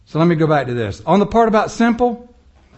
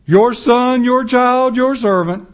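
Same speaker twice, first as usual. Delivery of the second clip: showy prayer; 4 semitones higher, slower than usual. Acted. Mimics piling words onto prayer.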